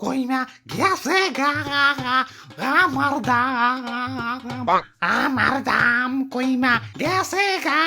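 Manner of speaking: drawn-out comic bawling; wailing cry. Acted. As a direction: wail slowly, stretching each word into sobs. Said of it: "কান্না থামাও, কান্না থামাও".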